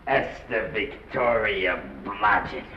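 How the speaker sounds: appalled repetition. Acted. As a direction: spell out the awfulness slowly. Agent dwells on the unfortunate name.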